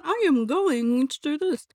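"I am going to" said slowly and stiffly, every word spelled out; mock a stuffy writer with slow, over-careful words; stiff formal voice. Shown as a demonstration. Mocking her own stiff email draft, said slowly and formally. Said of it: "Ew, I don't talk like that".

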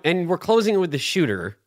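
imitating the host's sign-off inflection; mildly mock how he introduced you. Shooter mimicking host's introduction of him, mocking inflection. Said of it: "inflection, though".

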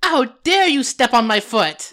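mock indignant. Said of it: "She's like".

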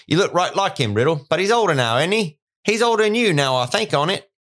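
put-on high, loud drunken lout voice; hammed-up drunk uncle. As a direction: slur it like a dazed drunk. Morphin voiced in reading.

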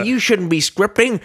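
high, slow mock complainer; put-on scolding follower voice; objector voice. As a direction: drag it out as a whiny mock critic. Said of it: "why am I always this voice".

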